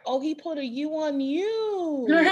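laughing through the friends' line; laughing quote. Retold or imitated. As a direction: giggle out the retold remark. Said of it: "they're like".

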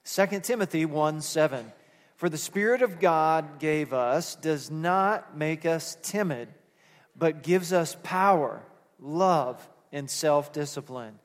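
reciting the verse aloud with the congregation; group recitation. Shown as a demonstration. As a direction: lead the room in saying it. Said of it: "Let's say it together".

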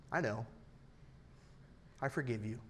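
soft, tender reassurance; hushed, accepting reply; gentle forgiveness. Acted. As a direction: forgive quietly, with understanding. Voices God forgiving gently.

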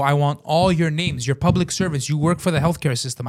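emphatic, mildly angry demand; retold indignant lecture; retold screaming. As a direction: insist on accountability. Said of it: "as I'm screaming".

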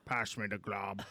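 hammed-up British request; comically mangled British accent. Doing his best British for the hosts, put-on accent. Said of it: "what's your best British accent?".

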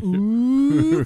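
high loud mock crowd ooh; be a sitcom crowd going ooh; sitcom audience ooh. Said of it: "like, sitcom, uh, audience".

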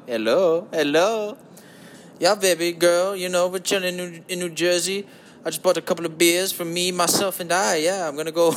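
lightly voiced cheesy smooth-talker; a hint of a lounge-lizard croon; put-on smooth voice. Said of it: "I can't do the whole podcast like".

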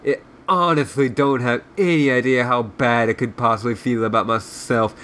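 irritable officer, lightly voiced, lisping; surly lisping Southern general. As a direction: grumble insults with a touch of Southern lisp.

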